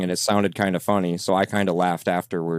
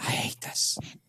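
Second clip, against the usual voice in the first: whispered, hushed, airy, breathy voice. Investigator describing a recorded voice heard after their laughing, imitating a breathy voice. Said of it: "It's like a breathy voice".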